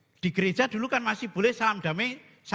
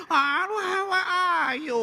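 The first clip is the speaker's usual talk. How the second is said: put-on old priest mumbling; 8 semitones higher than usual.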